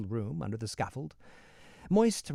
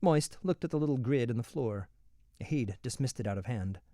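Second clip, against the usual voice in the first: ordinary delivery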